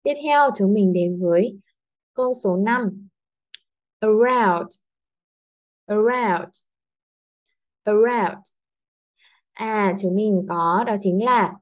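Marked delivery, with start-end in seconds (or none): 4.0-8.4 "Around" with light "A", strong "round"; second-syllable stress. Shown as a demonstration. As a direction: slip over "A" and land on "round". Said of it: "cô đã nhấn mạnh hơn".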